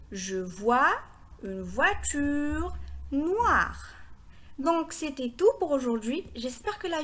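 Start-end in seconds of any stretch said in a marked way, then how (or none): 0.1-3.9 slow, linked reading of the whole phrase; slow repeat. Shown as a demonstration. Teacher repeats the phrase for learners, slow and connected. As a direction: repeat it slowly as one sentence. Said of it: "Je répète".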